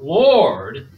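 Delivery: loud drawn-out plea for mercy; crying out. Retold or imitated. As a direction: call out slowly to be heard over a crowd. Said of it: "and they cried out".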